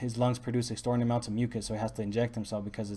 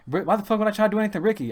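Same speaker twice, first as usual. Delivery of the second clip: high, loud, fast retort; indignant protest; 9 semitones higher, 6 dB louder, faster than usual. Retold or imitated. Speaker protests his innocence to Ricky, indignant. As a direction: fire back in disbelief, pitch way up. Heated reply to Ricky's accusation.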